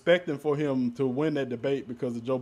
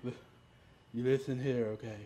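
Donald Trump; 6 dB quieter than usual. Acted. Scolding the co-hosts as the special guest, light Trump impression. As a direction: lightly impersonate a blustering politician telling them off. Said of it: "Trump voice".

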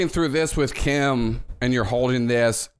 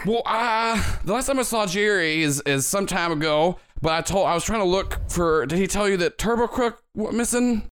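bellhop voice; 6 semitones higher than usual. Acted. GM voices Jenkins in dialogue.

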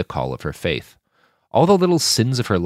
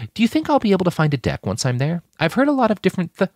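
fast, higher, eager babble; rushed question; 10 semitones higher, faster than usual. Acted. Sasha pressing Saul about a deck, rushed. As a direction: hurry the question until cut off.

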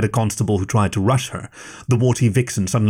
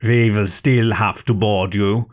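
shouted; slower than usual. Acted. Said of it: "the State Sec agent shouted".

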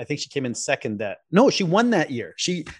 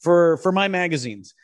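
higher-pitched imitation of an English publisher; English accent; 7 semitones higher than usual. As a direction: keep up the mock English accent. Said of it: "he has an English accent".

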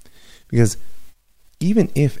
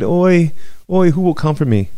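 wailing lament; 9 semitones higher than usual. Retold or imitated. Woman on the mountaintop cries for Jerusalem, high keening wail. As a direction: wail it like a mourning mother. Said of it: "And she cried".

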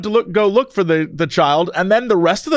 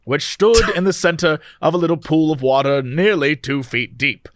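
put-on old-timey announcer voice. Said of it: "give me your old-timey announcer voice and read me this article".

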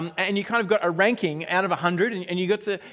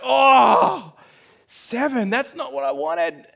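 disappointed; 5 semitones higher, 6 dB louder, much slower than usual. Retold or imitated. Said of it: "I'm like".

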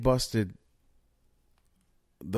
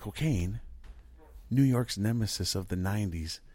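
DEA agent voice. Pretend. Podcaster reading the DEA quote, a hint of agent voice. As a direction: read it like a DEA press statement, lightly. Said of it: "I'm gonna even do it in my D E A voice".

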